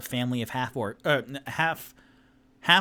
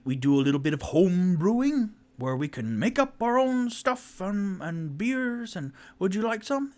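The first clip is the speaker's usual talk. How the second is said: high halfling voice; 7 semitones higher than usual. Acted. Halfling father offers beer.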